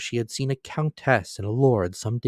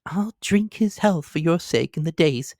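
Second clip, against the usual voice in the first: grudging whisper; 7 semitones higher than usual. A narrator's reading. Wife grudgingly concedes.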